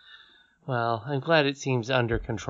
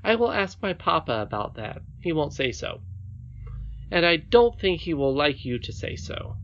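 higher-pitched princess voice, composed; indignant little princess; 5 semitones higher than usual. Acted. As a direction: warn the nurse with childish dignity.

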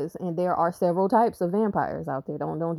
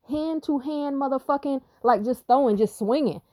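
excited; 7 semitones higher than usual. Real, not acted. Telling of fighting demons.

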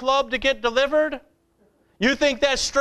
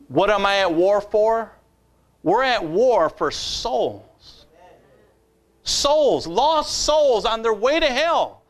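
rousing sermon cadence; fiery preaching. Acted. Preacher rallying the church to soul-winning, fiery cadence. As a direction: build the call to war.

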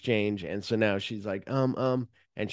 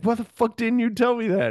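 high, loud angry demand; mock furious shout at Lewis; furious yell; 13 semitones higher, 5 dB louder than usual. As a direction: bark it at him in outrage.

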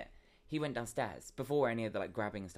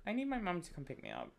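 put-on whiny kid; 9 semitones higher than usual. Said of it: "I was like".

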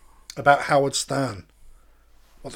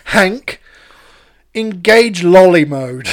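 robot command voice; 3 semitones higher, 9 dB louder, much slower than usual. Acted.

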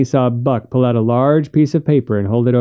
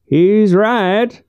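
new character voice; 9 semitones higher than usual. A narrator's reading. New voice from above.

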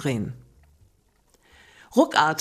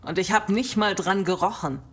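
tipsy enthusiasm; 3 semitones higher than usual. Acted. Drunk friend enthusing about cake.

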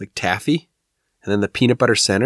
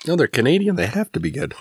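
indignant disbelief; 7 semitones higher than usual. Real, not acted. Defending Canadian candy, mock outrage.

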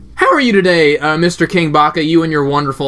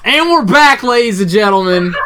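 lightly put-on host voice, pitched up; mock announcer; 5 semitones higher, 4 dB louder than usual. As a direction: open loud and high like an announcer, easing off. Podcast host announces return after glitch.

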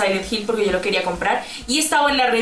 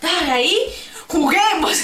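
higher eager plea; 7 semitones higher than usual. Retold or imitated. Girl asking her brother to let her play, eagerly. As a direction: beg to play, giggling.

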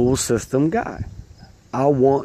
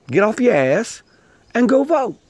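emphatic urging; 10 semitones higher, 3 dB louder than usual. Real, not acted. Urging viewers to vote.

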